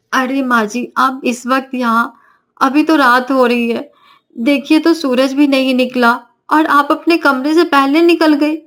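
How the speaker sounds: put-on sleepy young bride. Navya woken from sleep.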